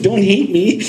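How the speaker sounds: high, laughing mock apology; laughing plea. To the other podcast after the snub, a laughing high apology. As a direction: laugh through a playful plea. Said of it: "You know, like".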